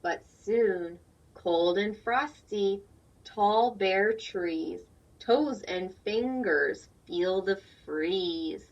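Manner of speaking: slow, loud storybook reading; reading to children. A narrator's reading. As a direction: read it slowly and fully to the class. Reads picture book aloud.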